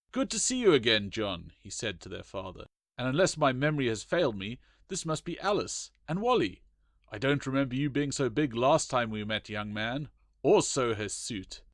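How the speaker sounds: a lightly voiced hearty colonel; teasing the boy good-naturedly; lightly voiced colonel, amused; jovial old colonel. Colonel's voice for long quote.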